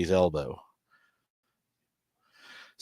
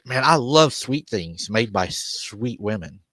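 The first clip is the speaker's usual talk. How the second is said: slow creepy flirt; slower than usual. Retold or imitated. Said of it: "And he said".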